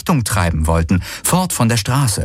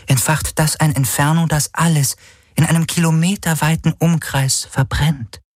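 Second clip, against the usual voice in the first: Schattenhelix; 5 semitones higher than usual. Acted. (höhere, langsame, sachliche Helix-Stimme)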